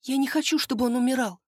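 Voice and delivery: high desperate begging; pleading. Acted. Maria begs Джианна to save her husband, high desperate plea. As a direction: beg her as if his life hangs on it. Взмолилась она.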